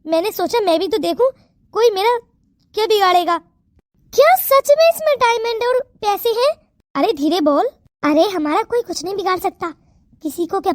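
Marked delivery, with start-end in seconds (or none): 4.1-6.5 amazed question. Acted. Friend amazed at diamonds.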